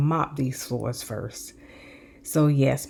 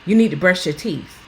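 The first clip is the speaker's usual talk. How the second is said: tough love. Retold or imitated. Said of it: "tough love".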